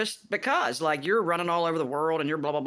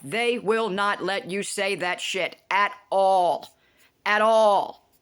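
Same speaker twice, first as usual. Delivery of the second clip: louder, slowed, stressing at all; emphatic rant; 5 dB louder, slower than usual. Real, not acted. Ranting to viewers about court, loud indignant. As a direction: hammer it home, indignant.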